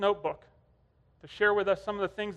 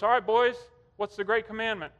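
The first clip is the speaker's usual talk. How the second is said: raised, lively quiz call; lightly voiced grandfather; 3 semitones higher than usual. Grandfather quizzing grandsons, lightly acted and lively. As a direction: imitate a grandfather rallying the boys with a question.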